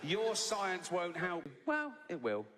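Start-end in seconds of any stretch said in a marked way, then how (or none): 0.0-1.4 "Your science won't help" drawn out slowly, each word weighted; half-mocking menace; slow mock solemn warning. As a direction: intone it like a dire prophecy. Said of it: "He's shouting at me".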